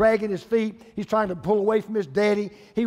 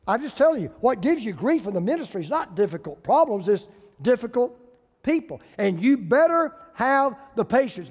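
raised, insistent pulpit voice; emphatic preaching; 2 semitones higher, 4 dB louder than usual. Acted. Preacher warning pastors about difficult people, emphatic preaching. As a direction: drive the warning home, punching key words. Preacher drives the point home.

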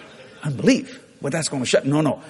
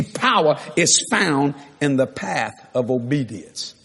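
"power" set apart, measured phrasing; slow dictation; slower than usual. Real, not acted. Preacher gives congregation a second point, slow measured dictation.

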